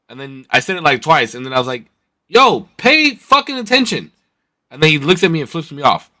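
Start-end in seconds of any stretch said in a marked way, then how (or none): 2.3-4.1 high, slow, drawn-out mock yell; retold scolding call-out. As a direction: re-enact scolding a driver, word by word. Retells second yell at the driver.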